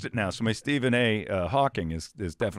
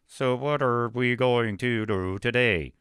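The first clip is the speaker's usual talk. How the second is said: computer voice; 3 dB louder, slower than usual. Retold or imitated. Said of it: "Occasionally you'd hear".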